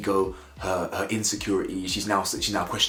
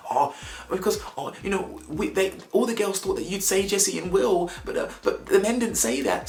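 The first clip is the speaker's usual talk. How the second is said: high, whiny mimic of her logic; mocking girl voice; 10 semitones higher than usual. Vlogger mocking Liv's explanation in a high whiny voice. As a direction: parrot her in a silly high voice.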